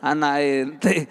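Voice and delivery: bahasa Arab dipaksakan, pelan dan lucu; mock forced Arabic. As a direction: meniru doa berbahasa Arab yang dipaksakan. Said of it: "Anda maksa dengan bahasa Arab itu lucu". (ejekan doa bahasa Arab yang dipaksakan)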